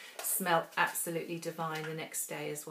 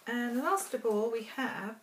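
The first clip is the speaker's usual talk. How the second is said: mouth full; 5 semitones higher, 3 dB louder than usual. Real, not acted. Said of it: "sorry, I've got something in my mouth".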